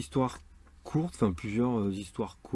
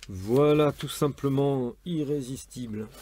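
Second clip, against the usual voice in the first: higher, slow, drawn-out title flourish; showy flourish; 4 semitones higher, slower than usual. Shown as a demonstration. Reader closing a romance excerpt, showy flourish. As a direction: stretch out the title like a grand finish.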